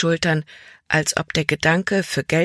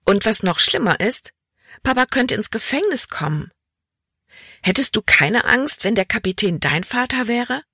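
higher, agitated daughter voice; worried Libby; 6 semitones higher than usual. A narrator's reading. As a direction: press him anxiously about Papa. (besorgt und aufgeregt, höhere Stimme)

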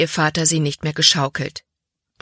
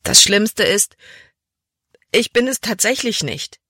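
higher, tearful wail; 5 semitones higher than usual. A narrator's reading. Libby confesses her fear to Papa, wailing. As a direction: let it break out high as a lament. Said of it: "jammerte sie".

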